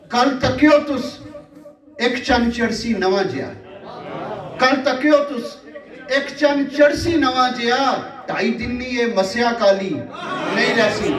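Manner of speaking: measured mushaira recital, repeating lines for effect; poetry recitation. Acted. Poet reciting verse to a live audience, declaimed. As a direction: declaim verse with drawn-out line endings.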